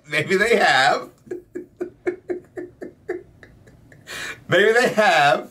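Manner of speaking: laughing. Pretend. Mocking friend's giggly line.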